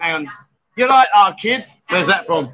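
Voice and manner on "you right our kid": put-on light northern accent, "You right, our kid?" said with a flat northern vowel. Shown as a demonstration. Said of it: "let me have another accent".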